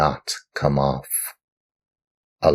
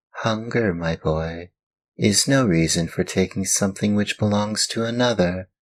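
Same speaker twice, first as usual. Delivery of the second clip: gently lecturing glowworm; 6 semitones higher than usual. Acted.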